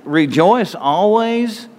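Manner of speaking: slow and high, in mock disbelief; incredulous, drawn out. Preacher mocking his own struggle with the verse, slow and incredulous. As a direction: stretch it out as if it can't be serious. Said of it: "And it's like".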